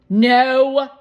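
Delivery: sharp high loud no; quick no. A narrator's reading. Shermie cutting off Esme's question, quick loud no. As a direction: blurt it out fast. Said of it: "Shermie answered quickly".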